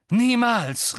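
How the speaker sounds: hoher, lauter Widerspruch; rufend. A narrator's reading. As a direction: ruf deine Weigerung entschieden heraus. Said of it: "rief Harry". (laut und hoch gerufen)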